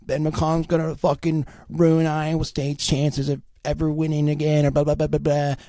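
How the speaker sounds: high-pitched mocking fan jeer; mocking rival fans. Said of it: "they're just gonna be like".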